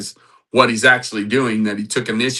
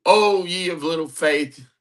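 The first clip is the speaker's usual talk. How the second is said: mock exasperated; 8 semitones higher than usual. Preacher jokes how Jesus might scold Peter, mock exasperated. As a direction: chide in hammed-up exasperation.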